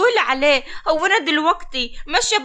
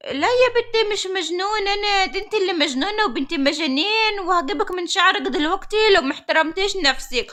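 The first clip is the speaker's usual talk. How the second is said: put-on old woman voice; 2 semitones higher than usual. Old woman threatens the girl.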